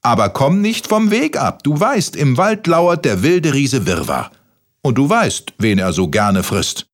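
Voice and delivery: high-pitched grandmother giving orders; grandmother warning. A narrator's reading. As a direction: warn the boy in a high, insistent voice. Grandmother voiced in the story.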